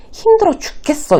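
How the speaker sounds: high-pitched whiny complaint; acted-out exhausted grumble; complaining answer. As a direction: play along, moaning about your hard day. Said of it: "이렇게 쿵짝이 맞는 거죠".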